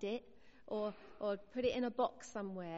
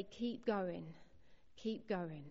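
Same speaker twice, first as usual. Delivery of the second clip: lower, softer reassuring urging; gentle encouragement; 4 semitones lower, 4 dB quieter, slower than usual. Shown as a demonstration. Comforting someone struggling in life, soft and low. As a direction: coax them on softly, like holding a hand. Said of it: "and say".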